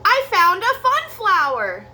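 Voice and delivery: high, loud cheer of discovery; gleeful child cheer. Acted. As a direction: shout out the find proudly. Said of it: "he cheered".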